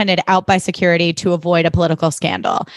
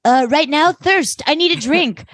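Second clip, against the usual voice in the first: higher, theatrical sigh of need; dramatic thirst; 7 semitones higher than usual. Retold or imitated. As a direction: play it like a diva begging. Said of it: "S is like".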